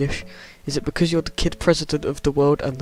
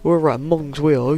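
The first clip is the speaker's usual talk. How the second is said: mock British accent; 4 dB louder than usual. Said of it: "'cause we have an accent".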